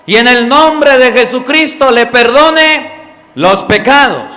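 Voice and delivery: más alto y lento, predicando; proclama enfática. Real, not acted. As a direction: lo recalca con fuerza. Predica con fuerza. (predicación en voz alta)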